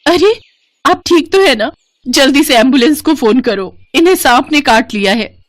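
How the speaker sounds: wife panicking after a snake bites her husband; panicked. Acted. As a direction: call for help in a panic.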